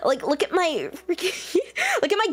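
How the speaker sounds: put-on high bubbly Valley Girl gushing; Valley Girl accent. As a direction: gush like a Valley Girl showing off. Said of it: "I'll have to start speaking in the Valley Girl accent".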